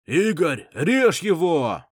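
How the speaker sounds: loud cheering yell; shout. A narrator's reading. Spectator yelling at the fighter to cut him. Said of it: "крикнул какой-то мужик".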